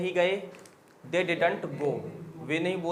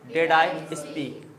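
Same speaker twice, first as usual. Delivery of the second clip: very slow model question; slow classroom model; slow dictation; much slower than usual. Shown as a demonstration. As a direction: stretch each word for learners. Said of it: "teacher models question".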